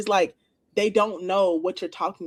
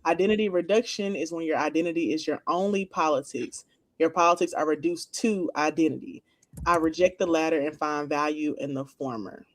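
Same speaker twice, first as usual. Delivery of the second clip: measured, lower read-out of a definition; reading aloud; 4 semitones lower than usual. Real, not acted. Reading a definition of identity politics to co-hosts, measured read-aloud.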